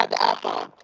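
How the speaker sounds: muffled, breaking-up phone line. Real, not acted. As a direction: voice coming through a bad connection. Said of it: "Why is it so muffled?".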